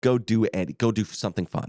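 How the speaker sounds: plain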